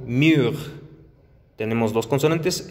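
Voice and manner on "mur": "mur" with rounded U; French mur. Shown as a demonstration. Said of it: "En el mismo caso".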